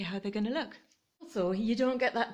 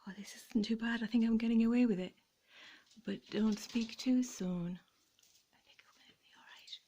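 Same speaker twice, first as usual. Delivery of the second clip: hushed, fingers-crossed murmur; tense whisper. Real, not acted. Owner carefully unhooking the ornaments, whispering tensely. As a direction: whisper under the breath while working carefully. Tense moment removing the lights.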